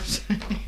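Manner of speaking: a quick breathy little giggle; brief quiet giggle at her own mix-up; soft giggle. Real, not acted. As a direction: let a small unvoiced laugh slip out. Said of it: "I'm laughing, giggling".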